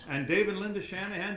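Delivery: greeting friends across the room, excited and loud; excited call-out. Real, not acted. Spotting friends in audience.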